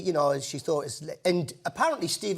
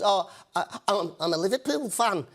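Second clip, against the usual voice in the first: Norwegian fan speaking in Scouse; lightly put-on Liverpool accent. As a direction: imitate a Norwegian's learned Scouse. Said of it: "in a Scouse accent".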